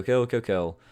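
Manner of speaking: ordinary talk, nothing marked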